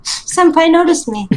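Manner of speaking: slow, high, giggly fangirl squeal; excited anime fan. Pretend. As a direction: swoon like a starstruck anime fan. Anime fan joke about statue.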